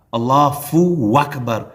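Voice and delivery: اللہ فو اکبر with a clear f-sound fu after Allah; wrong fu sound. Shown as a demonstration. Teacher imitates a faulty adhan, mock mistake. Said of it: "تو نہ یہ فا ہے".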